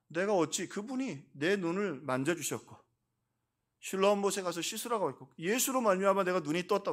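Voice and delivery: 높은 음으로 담대하게 증언하는 흉내; 확신에 차서 맞서듯 증언을 옮기기; 담대한 증언. Retold or imitated. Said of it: "담대하게 또 말하는 거예요". (담대하게 선언하는 인용 투)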